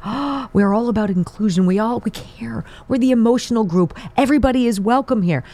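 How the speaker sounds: mock pearl-clutching. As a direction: parody the left clutching pearls.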